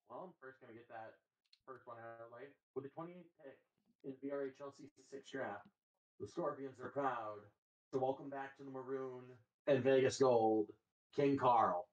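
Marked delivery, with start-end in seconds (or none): 2.7-11.9 draft announcer voice. Acted. Announces his draft pick.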